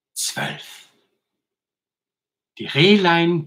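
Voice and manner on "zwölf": very soft, nearly whispered; hushed midnight count. A narrator's reading. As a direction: let the final hour fade into a hush. Bedtime count reaches twelve.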